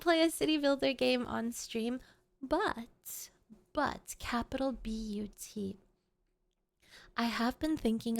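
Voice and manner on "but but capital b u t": whispered emphatic aside; hushed spelled-out but. Acted. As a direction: breathe it like a secret.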